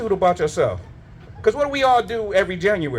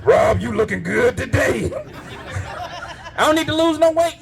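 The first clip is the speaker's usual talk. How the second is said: rising cheerful shout, higher toward the end; fat doctor's greeting; 5 semitones higher than usual. Pretend. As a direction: welcome Rob in like a jolly buddy. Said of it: "he's like".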